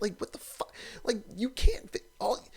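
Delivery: fast, breathy whispered disbelief; whispered incredulous aside; disbelieving whisper. Real, not acted. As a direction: hiss it under your breath in disbelief.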